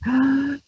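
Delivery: sharp, high demo inhale; breathing demo. Shown as a demonstration. Host teaching a waiting caller breathing, with a demo gasp. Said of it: "So it's like this".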